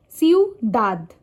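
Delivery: ciudad split up, stressed DAD; stress on last syllable. Shown as a demonstration. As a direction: say ciu-DAD, syllables apart. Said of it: "one syllable of a word is usually louder".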